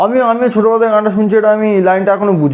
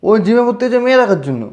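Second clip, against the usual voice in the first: higher, raised, mocking repeat with মেয়ে hit hard; teasing call-out; 4 semitones higher, faster than usual. Ribbing his gym-going friend, raised mocking call-out. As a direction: announce it to everyone with a jab on মেয়ে.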